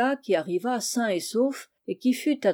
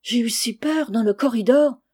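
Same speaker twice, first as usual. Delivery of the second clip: frightened servant; 3 semitones higher, 5 dB louder than usual. Acted. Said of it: "d'une voix chevrotante".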